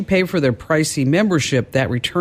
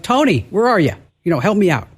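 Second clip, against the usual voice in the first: higher-pitched mock call to someone lost; retold calling-out, pitched up; 4 semitones higher, faster than usual. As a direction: call out for help, only half raised. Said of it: "I'm calling out to Tony".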